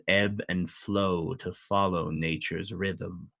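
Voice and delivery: a regal lord of the fey court, unhurried; a hint of a lofty fey noble; fey duke. GM voices the Duke of Dismay.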